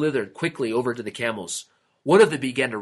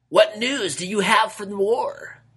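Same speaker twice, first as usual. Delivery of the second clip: 1 high king voice; 10 semitones higher than usual. A narrator's reading. King voice asks messenger.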